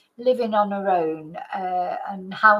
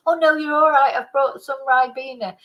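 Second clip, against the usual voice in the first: louder, higher bright refusal; young visitor politely turning down tea; 4 semitones higher, 4 dB louder than usual. Retold or imitated. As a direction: brush off the offer cheerfully. Young self politely declining tea.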